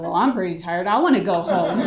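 retold echoing comeback, breaking into a laugh; retort. Suspect echoes her interrogator's complaint, amused retort. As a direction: throw the complaint back, emphatic and amused. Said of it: "I was like".

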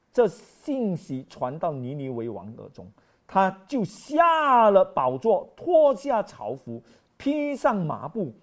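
slow, solemn reading of scripture. Acted. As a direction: read the verses slowly and gravely. (缓慢庄重地朗读经文)

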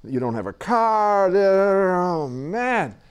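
drawn-out, lightly hammed-up lament; mock dismay. Teacher mimicking people who dwell on what is lacking, mock dismay. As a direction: bemoan it with stretched-out words. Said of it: "we have a tendency to say".

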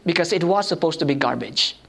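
ordinary talk

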